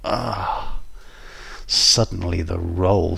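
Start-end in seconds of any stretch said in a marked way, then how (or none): 0.0-0.8 drawn-out pained "ah"; wincing groan. A narrator's reading. Narrator hears bones cracking, wincing groan. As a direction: groan in sympathy at the crunch. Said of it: "I winced as I heard".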